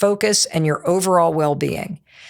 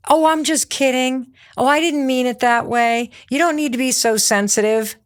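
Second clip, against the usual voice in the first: instigator voice; 4 semitones higher than usual. Acted. Mocking the family instigator.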